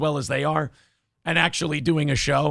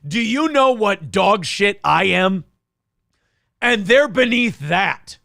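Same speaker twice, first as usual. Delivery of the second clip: mock pompous boast; 4 semitones higher, slower than usual. Mock boasting, echoing co-host.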